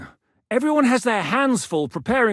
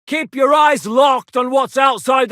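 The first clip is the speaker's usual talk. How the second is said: louder, barked command to the guards; shouted order; 3 semitones higher, 6 dB louder than usual. Acted. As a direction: bark it across the walls.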